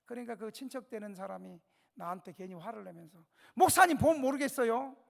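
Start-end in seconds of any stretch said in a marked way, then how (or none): 3.5-4.9 angry retort. Retold or imitated. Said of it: "그러면서 막 화를 내는 거예요".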